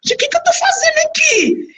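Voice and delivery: very high retold squeal; bewildered panic. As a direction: squeal it in mock alarm. Retells bewildered reaction at the front. (espanto em voz bem aguda)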